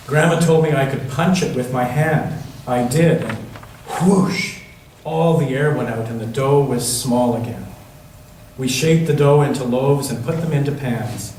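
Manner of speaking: gentle storybook reading voice; reading to children. Acted. Pastor reading a picture book to the children, gentle storytelling. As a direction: read it like a bedtime picture book for the kids.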